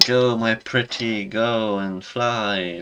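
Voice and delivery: slow, drawn-out mock witchy send-off; lightly voiced, slow go my pretty; Orion woman. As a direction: stretch it out like a fairy-tale witch. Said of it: "she's like".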